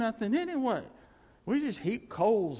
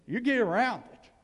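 emphatic; 4 semitones higher, 5 dB louder than usual. Real, not acted. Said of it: "preacher driving home point".

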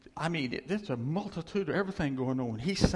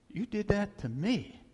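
higher, accusing tone; wounded anger; 5 semitones higher than usual. Acted. God confronting those who dishonoured him, wounded and mad. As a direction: accuse them, taking it personally. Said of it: "that's what made him mad".

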